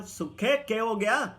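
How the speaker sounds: loud, high call through the door; worried call. Retold or imitated. Narrator calling through the locked door, loud and urgent. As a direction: call out, alarmed.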